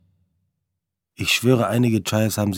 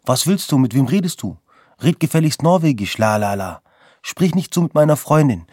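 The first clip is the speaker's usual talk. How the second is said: yelling back; 4 semitones higher than usual. Retold or imitated. New boyfriend yelling back at Marco, raised and angry. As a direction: shout back, outraged and defending her. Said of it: "brüllt zurück".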